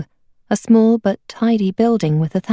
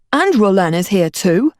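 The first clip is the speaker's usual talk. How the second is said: a touch of wounded pride; indignantly. Acted. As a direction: mildly put out. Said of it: "Roland said indignantly".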